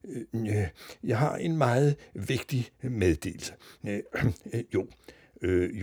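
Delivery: hesitant announcer full of ums and pauses; slow, confused. A narrator's reading. Confused newsreader makes an important announcement, slow and halting. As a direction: grope through an official announcement. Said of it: "Så sagde han langsomt".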